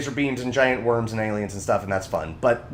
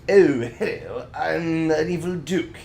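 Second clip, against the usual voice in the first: a hint of a different actor playing the baron; mild impression of the replacement narrator; recast villain voice; 3 semitones higher than usual. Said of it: "his voice became".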